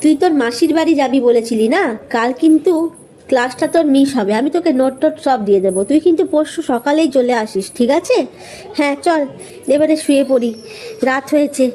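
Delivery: easygoing friendly chatter; lightly voiced friend. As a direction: friend chatting before sleep. Roma chatting with Shoili. (হালকা বন্ধুসুলভ গলা)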